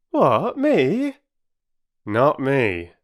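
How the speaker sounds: high, loud, haughty denial; lofty. Acted. Perks brushing off the children, lofty. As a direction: sniff it off, above it all. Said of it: "said Perks loftily".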